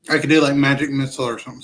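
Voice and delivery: eating while talking; talking through a mouthful of food; mouth full. Real, not acted. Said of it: "Sorry, I'm kinda eating".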